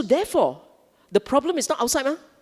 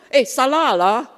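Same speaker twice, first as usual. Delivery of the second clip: casual Malay scold; 4 semitones higher, 6 dB louder than usual. Retold or imitated. Example of Malay usage.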